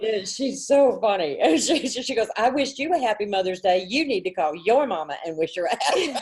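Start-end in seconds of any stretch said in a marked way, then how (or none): 2.4-6.2 lightly voiced Southern child; a hint of sassy Southern scolding; Southern little girl. Girl tells mom to call grandma, light Southern imitation. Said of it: "she's, she's very Southern".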